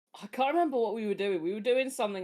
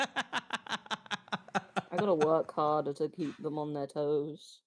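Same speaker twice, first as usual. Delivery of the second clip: laughing slowly; 4 semitones lower, much slower than usual. Real, not acted. Laughing drawn-out remark.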